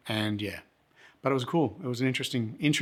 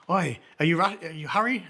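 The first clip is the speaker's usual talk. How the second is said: higher-pitched imitation of a local calling over; friendly local man; 6 semitones higher than usual. Drinker checks if the visitor is rushing, high friendly voice. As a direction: play the sociable stranger, pitched up.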